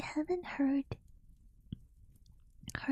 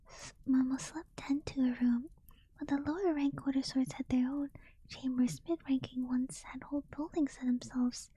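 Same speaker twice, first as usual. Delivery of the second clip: story narration. A narrator's reading. Reads novel aloud.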